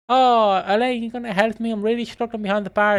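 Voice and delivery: lightly hammed-up begging; pleading for help. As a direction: plead like an overwhelmed bar worker. Acting Linda pleading for help.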